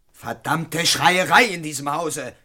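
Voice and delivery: loud, drawn-out grumble of annoyance; irritated curse. Acted. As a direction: curse loudly and slowly at the racket. Cursing at screaming in house.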